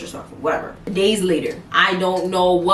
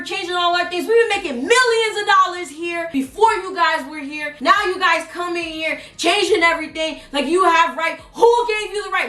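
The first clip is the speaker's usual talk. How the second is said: much higher, furious boss ranting; angry boss rant; 9 semitones higher than usual. Retold or imitated. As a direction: rant at the new team like an outraged manager. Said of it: "I gotta do it the way he did it".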